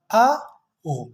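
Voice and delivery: आ then ओ drawn out; vowel demo. Shown as a demonstration. Teacher showing the diphthong's pronunciation. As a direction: sound आ ओ slowly. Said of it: "कुछ इस तरह होगा".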